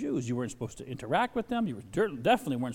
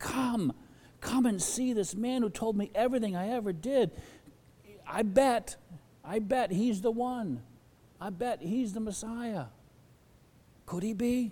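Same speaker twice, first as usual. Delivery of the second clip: acted excited woman's voice, much higher pitched; 8 semitones higher than usual. A speaker retelling a Bible story acts out the woman's excitement. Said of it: "You can just hear the excitement in her voice".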